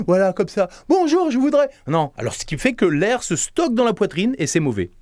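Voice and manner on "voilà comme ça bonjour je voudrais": words spoken on a gasping in-breath; talking while inhaling. Shown as a demonstration. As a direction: speak while sucking air in, high and tight. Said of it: "vous parlez en inspirant".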